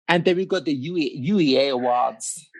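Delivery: put-on American accent, close to laughing; playful go at sounding American. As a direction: attempt an American accent, amused. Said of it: "in your best American accent".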